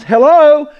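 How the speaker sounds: hammed-up indignant disciples; sarcastic accusation. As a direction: needle him the way frightened disciples would. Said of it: "read between the lines".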